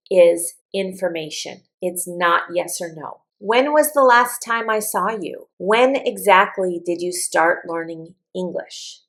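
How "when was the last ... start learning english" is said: up on the question word, down at the end; falling question intonation. Shown as a demonstration. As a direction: ask as if you want details. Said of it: "I'm asking for information".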